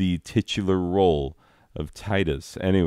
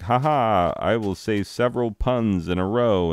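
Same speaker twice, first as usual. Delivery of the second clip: lightly voiced jokey clown, raised pitch; punning clown; 4 semitones higher than usual. Clown answers passers-by, lightly hammed-up joker. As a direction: announce puns with a hint of clownish laughter. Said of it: "And he's like".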